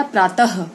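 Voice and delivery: प्रातः ending in a clear h; visarga demo. Shown as a demonstration. Teacher shows pupils the visarga in प्रातः. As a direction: end प्रातः with an audible ह. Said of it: "ह आया".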